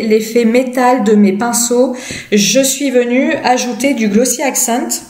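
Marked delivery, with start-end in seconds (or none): 2.3-5.0 hiccuping mid-sentence; talking through a bout of hiccups. Real, not acted. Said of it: "j'ai le hoquet".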